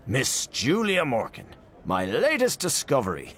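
a hint of a showman, slowed and grand. Mister Brown presenting Aunt Julia to guests, mild showman. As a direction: present her like a prodigy, unhurried. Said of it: "in the manner of a showman introducing a prodigy".

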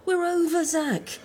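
firm angry rejection. Acted. Woman telling her ex it is over, angry rejection.

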